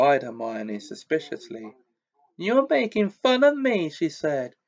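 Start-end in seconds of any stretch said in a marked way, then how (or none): 2.4-3.9 very high, wounded and loud; a hurt girl near tears; tearful ghost girl. A narrator's reading. Myrtle accusing Hermione, high and tearful. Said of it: "silver tears welling".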